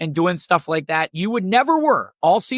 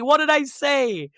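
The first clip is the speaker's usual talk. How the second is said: slow feigned innocence; 5 semitones higher, slower than usual. Retold or imitated. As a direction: stretch it out as if truly puzzled. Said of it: "she's like".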